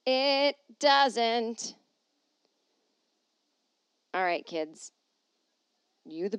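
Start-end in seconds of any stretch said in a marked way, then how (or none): 0.1-1.8 high, loud, drawn-out declaration; hammed-up, ringing insistence; exaggerated repeat. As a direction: belt it out high and stretched. Repeats line louder, stretched.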